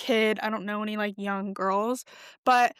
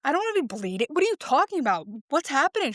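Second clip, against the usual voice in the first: higher-pitched, mock-alarmed questions; concerned; 4 semitones higher, faster than usual. Girl reacting to news of bleeding, concerned. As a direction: retell it with rising, mild panic.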